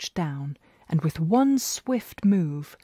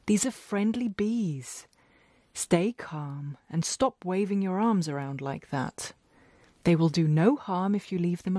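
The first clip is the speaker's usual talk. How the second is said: calmly. Acted. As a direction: soothe a frightened neighbour. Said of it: "Farmer Willems said calmly".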